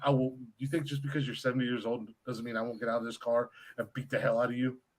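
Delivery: mock solemn, low, dead-level, flat deadpan voice. Retelling a reply to a truck passenger: imitating own solemn, deadpan reply. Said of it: "didn't raise my voice, just solemn as could be, dead face".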